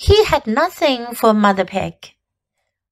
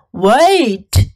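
mooing cow voice; 4 dB louder than usual. Acted. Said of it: "she mooed".

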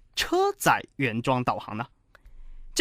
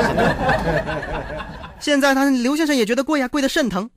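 laughing; 8 semitones higher, 3 dB louder, slower than usual. Real, not acted. Host laughing at caller's cost.

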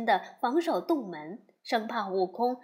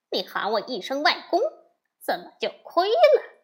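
boastful; 3 dB louder than usual. Acted. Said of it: "悟空说".

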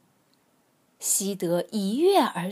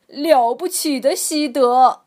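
excited; 3 semitones higher, 11 dB louder than usual. A narrator's reading. Crowd praises the dog.

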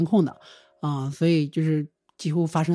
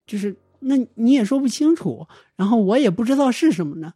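higher-pitched, exasperated pleading; frustrated complaint; 5 semitones higher, 3 dB louder than usual. Retold or imitated. Sister complaining to the shaman over video, exasperated and high. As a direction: whine it out, fed up and not understanding.

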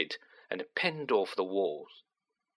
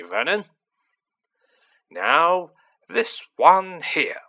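lightly voiced domineering aunt, louder; overbearing aunt; 5 dB louder than usual. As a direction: play a boastful, self-satisfied aunt, a little louder. Voices Aunt March at dinner.

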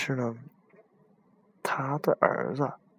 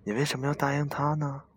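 pleading ghost woman; 4 semitones higher than usual. Acted.

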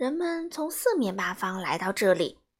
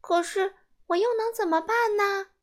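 put-on high, raised boy's question while running; loud plea; 10 semitones higher, 4 dB louder than usual. A narrator's reading. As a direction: call out the question as he runs. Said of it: "一边大声问". (西蒙边跑边大声问)

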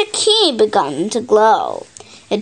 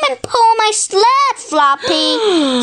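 calling out; 11 semitones higher than usual. Acted. Kipper calls Floppy.

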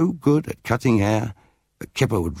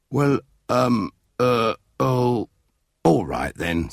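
reluctant Dad; 4 semitones higher, slower than usual. A narrator's reading.

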